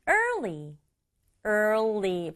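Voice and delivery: early as er plus li, tongue moving forward once; early pronunciation. Shown as a demonstration. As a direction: glide from er into li. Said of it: "er에다가 리 붙여서". (early 혀가 앞으로 한 번)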